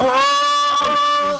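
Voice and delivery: surprised. Real, not acted. Surprised at a first down.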